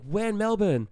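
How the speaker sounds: high, eager mock Australian; Australian accent. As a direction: ask like an eager Australian lad. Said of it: "these kids were also Australian".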